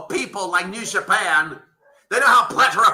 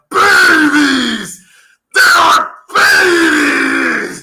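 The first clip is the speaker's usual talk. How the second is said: mock crying; 7 semitones higher, 9 dB louder, much slower than usual. Real, not acted. Podcaster mocking the promotion as babies, fake crying.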